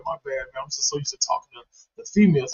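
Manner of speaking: imitating a soft, low sexy talker; quiet, low mock-seductive murmur. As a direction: play the friend who talks sexy on the phone. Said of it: "wanna talk in this sexy voice".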